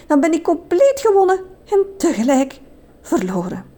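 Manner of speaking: high, hammed-up lovestruck poetry; over-the-top romantic swooning; passionate declaration. A narrator's reading. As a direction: declaim like a smitten suitor, pitch climbing. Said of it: "ging vol passie verder".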